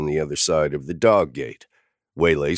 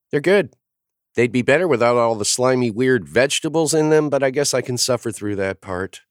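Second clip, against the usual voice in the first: put-on light, higher child voice; a matter-of-fact little girl; kid voice; 8 semitones higher than usual. A narrator's reading. Girl explaining to the adults, in a kid voice.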